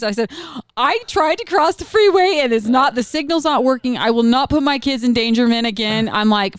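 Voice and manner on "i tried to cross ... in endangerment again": high-pitched tearful protest, imitated; retelling a meltdown at the desk; breaking down. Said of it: "I start breaking down in tears".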